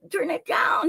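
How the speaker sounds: put-on small request in a little boy's voice; a hint of a child asking; imitated young son. Mother voices her young son.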